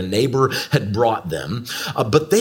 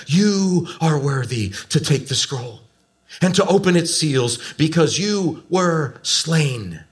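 measured reading, building to higher intensity; solemn scripture reading; 3 semitones higher than usual. Acted. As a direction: read scripture aloud with growing awe. Reads scripture aloud to congregation.

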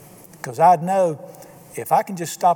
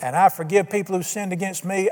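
prayer. Shown as a demonstration. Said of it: "go on all you want to".

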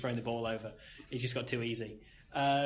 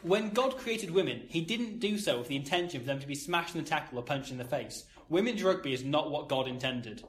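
put-on Irish accent. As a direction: read it with a hint of an Irish accent. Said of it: "It's only in an Irish accent".

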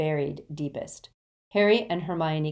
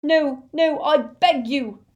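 high, loud, desperate begging; anguished, high-pitched pleading; sobbing plea; 10 semitones higher, 9 dB louder, slower than usual. A narrator's reading. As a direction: beg as if breaking into sobs. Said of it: "sobbed Xenophilius".

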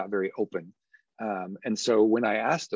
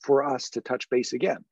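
higher, lilting open question; approachable voice; 4 semitones higher than usual. Shown as a demonstration. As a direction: invite them warmly to set the time. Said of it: "I'm using that approachable voice again".

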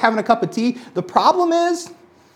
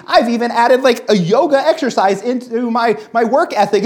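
retold upset rant; 3 semitones higher than usual. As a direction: replay the indignation half-acted, slowing on the first question. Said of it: "I got really upset".

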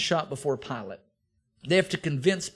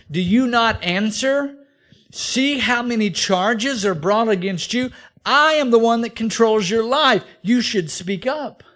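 higher, louder, slow menacing demand; threatening Pilate; 5 semitones higher, 6 dB louder than usual. Acted. Pilate warns Jesus to defend himself, menacing and loud. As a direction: lean in and threaten him with death.

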